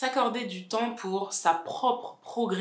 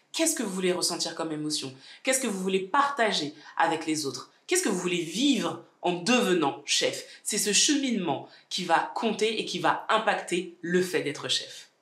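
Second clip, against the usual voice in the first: sore-throat voice from tonsillitis; talking with swollen tonsils and a stuffy nose. Real, not acted. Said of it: "je pense que vous l'entendez d'ailleurs". (voix d'angine, gorge gonflée)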